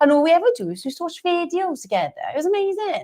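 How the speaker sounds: Swansea Welsh accent. Recalling living in Swansea with friends: Welsh accent like Gavin and Stacey. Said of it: "You sound like Gavin and Stacey now".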